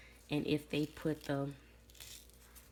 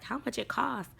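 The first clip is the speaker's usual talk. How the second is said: higher-pitched, excited retold question; imitated eagerness; 5 semitones higher, 4 dB louder than usual. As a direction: imitate an amazed would-be buyer. Man reacts to being fooled.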